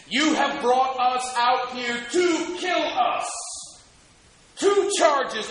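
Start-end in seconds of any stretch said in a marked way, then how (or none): 0.1-3.3 accusing shout. Acted. Voicing the people's accusation.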